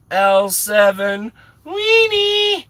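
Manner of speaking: high, drawn-out schoolyard jeer; playful movie taunt. Pretend. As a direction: stretch it out slowly into a high, teasing call. Quoting Sandlot taunt playfully.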